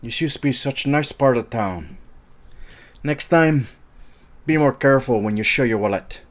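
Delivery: a lightly put-on French accent. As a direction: quote the line in a so-so French accent. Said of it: "I may not have the best French accent".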